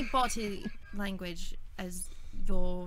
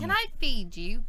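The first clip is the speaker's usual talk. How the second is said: put-on English accent; 3 semitones higher, 4 dB louder than usual. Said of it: "keep doing that accent".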